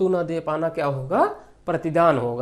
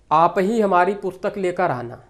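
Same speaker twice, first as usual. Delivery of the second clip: आप ही pressed out emphatically; single out the listener with a stressed ही. Shown as a demonstration. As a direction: put the weight on ही right after आप. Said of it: "जोर देकर बोला जाए".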